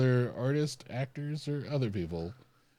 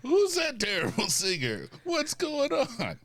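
baffled Jeremy Renner; 4 dB louder, slower than usual. Retold or imitated. Renner voiced reacting.

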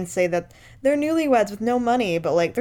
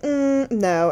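mock coy refusal; 6 semitones higher than usual. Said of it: "And she's like".

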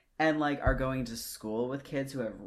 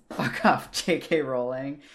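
loud exasperated outburst; 3 semitones higher, 9 dB louder than usual. Real, not acted. Annoyed outburst at J K Rowling.

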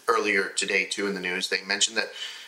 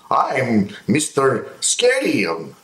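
cheesy TV host; 3 semitones higher than usual. Retold or imitated. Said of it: "genuinely thinks it's a good T V show for kids".

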